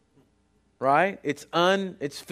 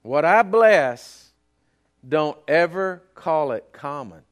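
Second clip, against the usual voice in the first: booming voice of God; 3 semitones lower, 5 dB louder, slower than usual. Retold or imitated. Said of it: "He says".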